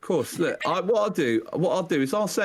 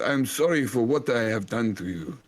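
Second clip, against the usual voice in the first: put-on German accent. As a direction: apologise like a hammy German elder. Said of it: "this is a German accent".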